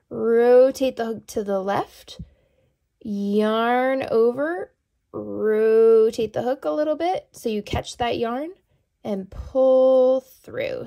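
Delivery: drawn-out words paced to each hand move; slow step-by-step. Shown as a demonstration. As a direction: talk them through it slowly, pausing between steps. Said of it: "I'll do it again slowly".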